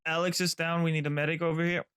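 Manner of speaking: loud urgent call for a medic; officer shouting orders. Real, not acted. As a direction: shout it across the battlefield. Teammate down, calling for medic.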